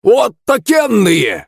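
put-on very high, frantic old man; high-pitched hysterical yelling; spluttering shout. A narrator's reading. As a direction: shriek it high, drawing out the last words. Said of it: "продолжал кричать старик, брызжа слюной".

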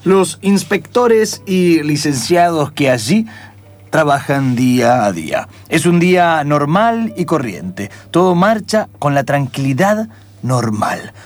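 steady storyteller setting the scene; lightly dramatic narrator voice; radio drama narration. A narrator's reading. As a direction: narrate the airport scene calmly.

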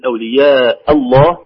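"الله" with a thick, velarized double lam, drawn slowly; "أولياء الله" said slowly with a heavy lam in "الله"; لام مفخمة في "الله"; heavy lam in Allah. Shown as a demonstration. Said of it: "نقول".

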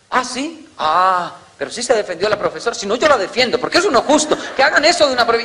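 high, laughing mother changing tack; backpedalling mother. Retold or imitated. Mother learns it was the teacher, high and laughing. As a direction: talk your way out, still indignant.

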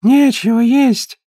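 high whimpering whine; whining. Acted. Old mother to Marge, a high whimpering whine. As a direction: whine in despair.

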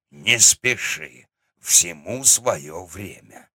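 усмешливый старик. Acted. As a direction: drawl it with a grin like a grandfather. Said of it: "ухмыльнулся дед". (медленно, с усмешкой, по-стариковски)

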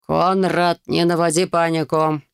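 plain reading voice

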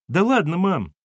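put-on high-pitched boyish brush-off; protesting child. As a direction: wave off mum's scolding as a kid. Boy brushes off mother's scolding.

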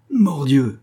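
high, loud cry of frustration; exclaimed oath. A narrator's reading. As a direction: burst out with an oath. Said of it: "s'écria D'Artagnan". (juron lancé avec dépit)

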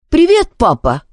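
put-on high, defiant boy's greeting. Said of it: "с вызовом поздоровался Зар". (вызывающе, высоким мальчишеским голосом)

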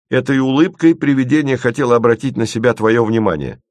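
high, loud, eager explaining; suddenly perked up. A narrator's reading. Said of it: "внезапно встрепенулся Леденец".

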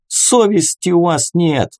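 high-pitched reproach; indignant crowd. A narrator's reading. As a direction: call it out from the mob. Crowd heckles the temple guards.

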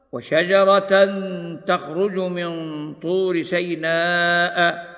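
slow, measured tartil chant; slow Quranic recitation. Acted. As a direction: recite it slowly with tajweed. Recites verse in tajweed style.

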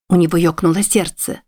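ordinary delivery, nothing marked

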